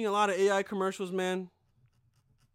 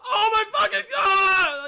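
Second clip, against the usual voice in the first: slow, high, loud mock scream with a laugh; panicked scream; 11 semitones higher, 12 dB louder, slower than usual. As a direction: shriek at the robot chasing your car. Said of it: "you're like".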